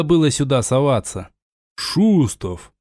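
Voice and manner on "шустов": sudden startled call, sharp; sharp surprised shout. A narrator's reading. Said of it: "Удивлённый возглас прозвучал настолько резко".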